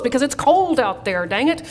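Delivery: playfully exasperated parent; mock exasperation. Parent to underdressed teenage kid, mock exasperation.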